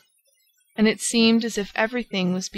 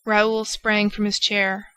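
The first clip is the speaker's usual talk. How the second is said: ordinary delivery, nothing marked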